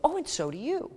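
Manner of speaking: high, quick, hollow return compliment; insincere. Retold or imitated. Mildly mock insincere reply to praise. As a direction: toss it straight back without meaning it. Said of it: "It seems quite insincere".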